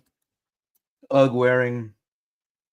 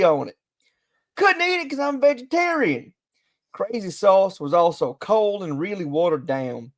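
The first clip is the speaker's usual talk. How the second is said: put-on Southern accent; 3 semitones higher than usual. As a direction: read the review as a mildly Southern customer. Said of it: "I'm gonna go Southern here".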